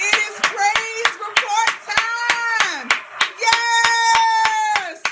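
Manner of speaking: slow, high emcee call; hype announcement. Real, not acted. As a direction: announce it like a game host. Announcing praise reports.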